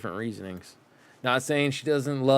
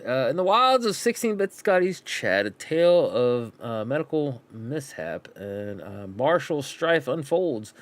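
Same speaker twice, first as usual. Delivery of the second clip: nature documentary. Acted.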